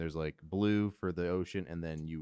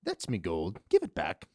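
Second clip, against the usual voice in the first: put-on Irish accent; 6 dB louder than usual. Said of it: "do a super Irish accent".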